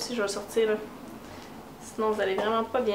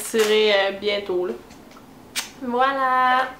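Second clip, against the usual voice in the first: talking while drinking from the mouth corner; words around a sip; slower than usual. Real, not acted. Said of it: "Je bois sur le bord de la gueule".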